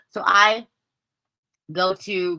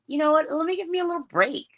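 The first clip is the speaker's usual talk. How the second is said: self-talk quote; 10 semitones higher, faster than usual. Retold or imitated. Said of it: "because I'm like".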